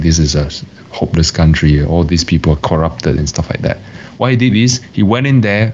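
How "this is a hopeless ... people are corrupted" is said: ordinary talk, nothing marked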